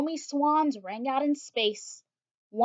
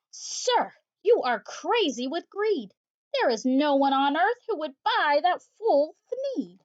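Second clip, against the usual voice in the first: higher scolding Lorax, rising to louder; sharpish bossy Lorax; 4 semitones higher, 3 dB louder than usual. Acted. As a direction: scold the greedy Once-ler. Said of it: "a voice that was sharpish and bossy".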